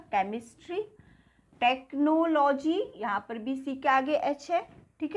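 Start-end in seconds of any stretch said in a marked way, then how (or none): 0.1-0.8 केमिस्ट्री with a plain K sound, no H; केमिस्ट्री, the H left silent after C. Shown as a demonstration. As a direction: say केमिस्ट्री starting on a hard K. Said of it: "एच को कुछ भी pronounce नहीं किया".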